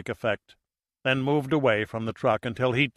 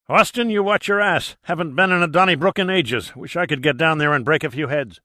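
put-on rowdy old captain; 5 semitones higher, 4 dB louder than usual. McGinty, a gruff sea captain.

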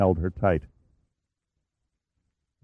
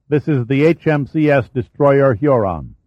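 firm, louder radio warning; 4 semitones higher, 3 dB louder than usual. Acted. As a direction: announce it like a threat.

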